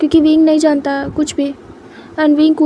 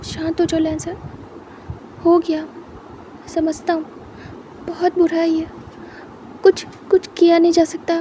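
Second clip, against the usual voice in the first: consoling friend; 2 semitones higher than usual. Acted. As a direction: hush a crying friend gently. Consoling Lan Jan, as Wing.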